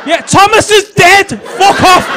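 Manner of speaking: put-on high, loud shouting toddler; child's voice. Dad imitating his toddler shouting at him. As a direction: shriek like a cheeky kid. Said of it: "And he's going".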